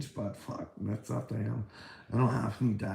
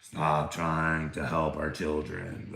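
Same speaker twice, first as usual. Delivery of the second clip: lower, slow put-on voice of a dismissive official; mocking critics; 7 semitones lower, slower than usual. Vlogger mimicking the people who call him crazy, mock-pompous. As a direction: sneer it out slowly like a smug authority.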